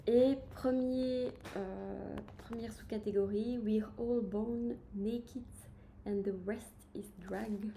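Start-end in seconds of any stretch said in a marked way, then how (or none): 3.6-7.7 slow, careful English with a strong French accent. Shown as a demonstration. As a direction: read the English title, slowly, with a French accent. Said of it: "vous aurez entendu mon super accent". (anglais avec un fort accent français)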